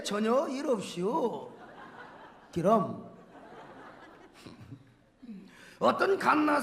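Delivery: put-on psalm in a North Korean Hamgyong accent; Hamgyong dialect. Preacher performs the Hamgyong version for laughs, Hamgyong dialect. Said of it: "함경도 버전".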